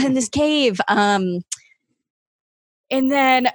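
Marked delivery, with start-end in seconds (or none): 0.0-0.8 higher mock-panicked voice; retold scared. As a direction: finish the frightened warning, hammed-up. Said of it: "I got really scared then".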